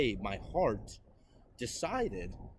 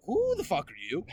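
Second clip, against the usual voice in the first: retold defiant challenge; 5 semitones higher, 4 dB louder than usual. Retold quarrel with stepdad.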